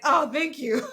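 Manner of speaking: high-pitched thanks through a laugh; mock-sweet kid voice; grateful little pupil. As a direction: imitate a relieved child, amused. Pupils thanking teacher for water remedy.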